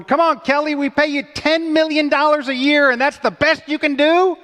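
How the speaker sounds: sports fan yelling at the coach on TV, exasperated. Retold or imitated. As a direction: yell at the screen at Kelly. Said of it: "screaming at your television".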